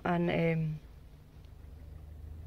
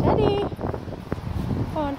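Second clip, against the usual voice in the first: calling out; 4 dB louder, much slower than usual. Real, not acted. Calling the dog outdoors.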